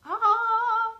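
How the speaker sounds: sudden high "Ah" of discovery; surprised gasp. Real, not acted. Speaker to cohost on finding a graphic designer, surprised high gasp. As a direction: gasp as the coincidence hits.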